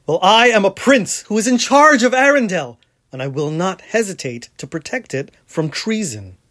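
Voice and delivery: a touch of a proud prince, fast; lightly voiced haughty royal declaration; Hans. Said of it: "Hans sounds like this".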